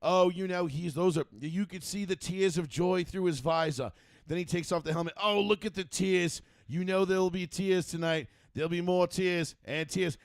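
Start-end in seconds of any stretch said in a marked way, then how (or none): 0.0-3.9 lightly voiced commentator, higher pitch; eager play-by-play imitation, pointing it all out; F1 announcer. Announcer pointing out tears of joy, lightly mimicked commentary. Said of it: "the announcer's like". 5.2-10.2 lightly mimicked commentator, raised pitch; F1 announcer. Announcer harping on the driver's tears, mock commentary. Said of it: "the announcer's like".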